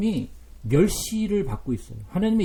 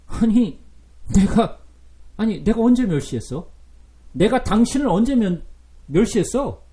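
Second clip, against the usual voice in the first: louder, indignant back-talk; defiant retort; 3 semitones higher, 6 dB louder than usual. Acted. Israel talking back to God, defiant and louder. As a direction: snap back defiantly at father. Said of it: "이스라엘이".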